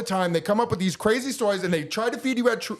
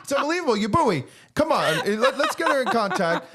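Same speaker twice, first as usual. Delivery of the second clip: laughing; 3 semitones higher than usual. Real, not acted. Mocking the candidate, laughing.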